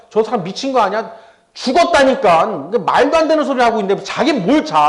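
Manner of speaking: lively imitation of scoffers; mock sneering. Mourners ridicule Jesus for saying she sleeps, mock sneering. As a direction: act out the jeering, pushing up in pitch. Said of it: "비아냥거리고 조소하고 조롱하면서".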